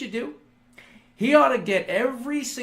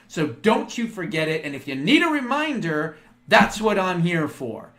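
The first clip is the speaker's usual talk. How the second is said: 1 scolding rant; 2 semitones higher, 5 dB louder than usual. Pretend. Imagined Elon speech, verbal bitch slap.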